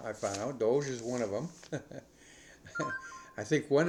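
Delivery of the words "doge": Doge said as one syllable with a long O; pronouncing DOGE. Shown as a demonstration. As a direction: say Doge like "dohzh", rhyming with "rogue"'s vowel. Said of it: "different ways of pronouncing that word".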